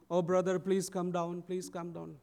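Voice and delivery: mild, lightly acted plea; plead, softening on the repeat. Siblings begging their brother down from the tree, mildly pleading. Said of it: "They were all pleading".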